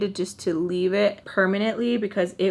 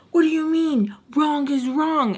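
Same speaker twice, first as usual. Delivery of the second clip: mimicking him; 6 semitones higher than usual. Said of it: "He's like".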